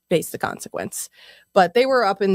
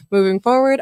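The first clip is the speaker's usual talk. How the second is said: frat bro; 3 semitones higher, 4 dB louder than usual. Shown as a demonstration. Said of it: "I'm gonna say it in the most frat boy voice I can".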